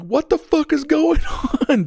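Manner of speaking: high, loud retold panic, breaking into a laugh; acted-out alarmed shouting; alarmed yell. Retells his alarmed shout.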